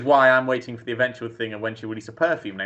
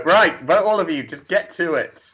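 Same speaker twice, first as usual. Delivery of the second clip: imitating Bree; 8 semitones higher, 6 dB louder than usual. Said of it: "I like how Bree does go".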